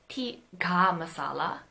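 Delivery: tikka with a neutral unaspirated k; plain ka tikka. Shown as a demonstration. Teacher trying tikka masala with the plain consonant. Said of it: "all three of the velar consonants".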